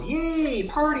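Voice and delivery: high squeaky cheering germ; cute germ voice. Pretend. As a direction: squeal it like a tiny happy germ. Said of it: "So the bacteria goes".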